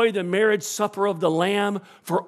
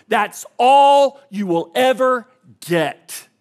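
louder, slow, punched-out warning; emphatic warning; 6 semitones higher, 9 dB louder, slower than usual. Real, not acted. Preacher warning his congregation, slow and loud. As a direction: drive it home slowly and hard.

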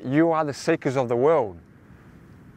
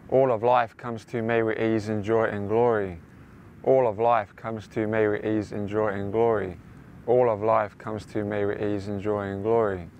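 affirmation; 3 semitones lower than usual. Shown as a demonstration. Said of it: "Say it several times".

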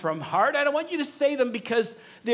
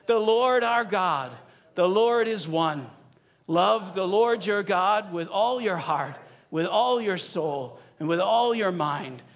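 with passion and gusto; 4 semitones lower than usual. Shown as a demonstration. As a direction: proclaim each line with heartfelt gusto. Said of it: "say it with a little bit of effort and gusto".

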